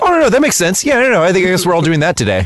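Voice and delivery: high-pitched mock agreement; mock agreeable. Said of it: "Billy and I have a similar".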